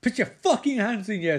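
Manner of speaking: hammed-up cop yelling at the suspect; mock cop shout. Retelling the show, Lawrence Fishburne yells at the pharmacist in a mock shout. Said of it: "says Lawrence Fishburne".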